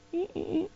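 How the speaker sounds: very high, soft little "eh"s; comic timid whimpering, high and quiet; tentative squeaks. Acted. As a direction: mimic nervous baby steps in tiny squeaks. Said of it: "first step is a little bit like".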